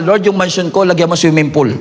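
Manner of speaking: teasing prayer, laughing through the words; half-laughing joke to the Lord; playful laughing aside; joking with a laugh. Retold or imitated. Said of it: "Binibiro ko si Lord eh".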